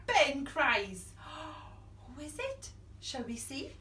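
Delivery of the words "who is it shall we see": whispering. Acted. Suspense whisper.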